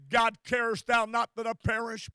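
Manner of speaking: crying out to God. Retold or imitated. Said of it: "weeping and crying and saying".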